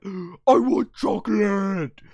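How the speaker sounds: put-on slow, wailing child's plea; whiny kid demand. Majin Buu begging for chocolate, slow childish wail. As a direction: wail it like a spoiled child wanting candy. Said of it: "he's like".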